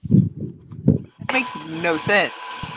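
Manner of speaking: a slow, breathless whisper under the others; whispered aside. Real, not acted. Player whispers a complaint about the silly poem. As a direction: mutter it so only the table hears.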